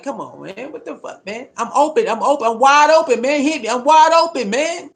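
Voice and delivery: high, loud cries of an open receiver ignored; frustrated receivers yelling. Retold or imitated. Receivers yelling at their quarterback, frustrated and loud. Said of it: "They're like".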